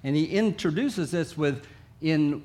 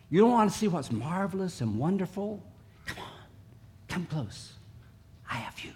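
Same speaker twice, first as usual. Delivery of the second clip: soft intimate coaxing; God coaxing softly; 3 semitones higher, 3 dB quieter than usual. Acted. God luring his people close, soft and tender. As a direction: draw them close, then hush. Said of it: "God says".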